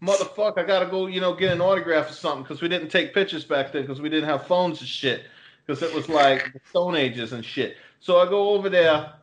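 put-on a light Boston accent on a tall tale; laid-on Boston guy telling a story. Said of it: "why is he talking like he's from Boston?".

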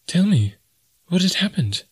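high, pleading heroine's voice; high, worried questioning; anxious young woman. A narrator's reading. Jane begs to be told.

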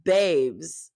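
low-key, unimpressed aside. Real, not acted. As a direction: say it dryly, in disbelief. Exasperated reply to the crier.

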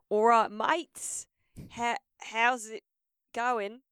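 high, slow squeaky sing-song welcome; bright squeaky greeting, drawn out; character voice. Acted. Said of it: "You gotta do the voice".

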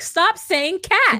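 high, drawn-out mock plea; mock exasperation. Host voicing a fed-up listener, mock exasperation. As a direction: beg them to quit, half-joking.

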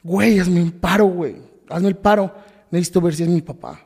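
restrained re-enactment of desperate yelling; retold desperate shout. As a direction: re-enact begging a guard to let you through. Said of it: "de la desesperación empiezo a gritar".

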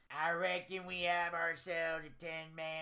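lightly hammed-up hillbilly accent; mock Southern accent. The Don teasing Southerners with a mock hillbilly accent. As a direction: imitate a Southern country boy. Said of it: "Not all of us sound like that".

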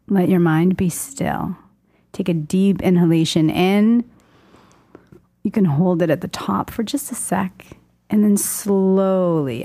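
slow, calm meditation voice; guided meditation. Acted. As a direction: guide them into calm, slowly. Leads a breathing meditation.

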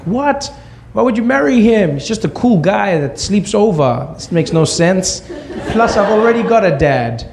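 put-on high-pitched, incredulous child's protest; acted-out disbelief, pitched well up; incredulous kid. Son objecting to mom's marriage plan, incredulous.

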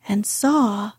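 plain reading voice

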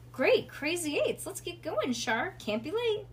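high, hearty rallying voice; upbeat father. A narrator's reading. Dad hurries his wife out the door, upbeat and high. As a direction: chivvy them out cheerfully.

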